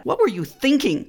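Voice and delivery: imitating a parent's exasperated what-were-you-thinking, pitch up; mock scolding question, reproachful; parental reproach. Father scolding his son over dirty clothes, mock exasperated. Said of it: "so common for parents to say that".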